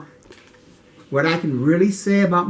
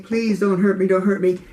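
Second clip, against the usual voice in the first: pleading a little higher, mild retold fear; retold begging; 6 semitones higher than usual. Boy begging the bully for mercy, retold lightly higher. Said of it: "now I'm begging for mercy".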